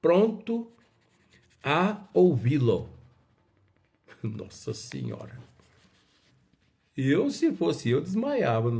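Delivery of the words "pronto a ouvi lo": loud, slow firm exclamation; firm, commanding readiness. A narrator's reading. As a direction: declare it firmly, each word weighty. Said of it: "exclamou em tom firme".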